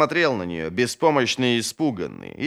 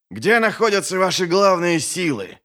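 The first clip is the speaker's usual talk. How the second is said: pressing, louder question; insistent demand; 7 semitones higher, 4 dB louder than usual. A narrator's reading. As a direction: demand an answer firmly. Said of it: "настойчиво спрашивал Валимир". (настойчивый вопрос)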